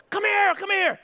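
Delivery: put-on high, urgent kid call; imitating a girl summoning her brother; calling someone over. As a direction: holler it high and eager.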